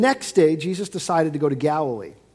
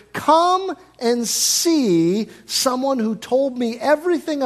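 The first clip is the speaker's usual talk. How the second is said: higher, louder, slow amazed invitation; excited wonder; 7 semitones higher, 4 dB louder, slower than usual. Acted. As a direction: share astonishing news with neighbors. Woman excitedly telling her village.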